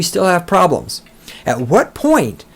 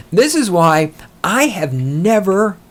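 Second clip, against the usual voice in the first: ordinary talk, nothing marked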